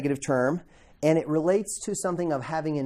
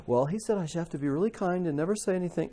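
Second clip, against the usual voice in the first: mocking misreading; 4 dB quieter, faster than usual. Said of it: "go running off".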